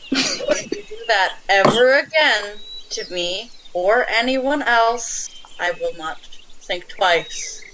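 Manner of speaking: stern threat. Acted. Player threatens caught child thief.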